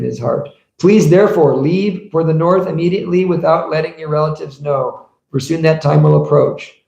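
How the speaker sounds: recited translation, lightly lifted; scripture reading. Acted. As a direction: read the verse aloud to a congregation. Reads scripture aloud to listeners.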